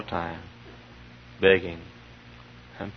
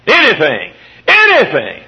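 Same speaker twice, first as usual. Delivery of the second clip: very high, loud shout; fiery preacher declaring God's power; preaching at full force; 10 semitones higher, 9 dB louder than usual. Real, not acted. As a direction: cry it out to the rafters. Sermon climax again.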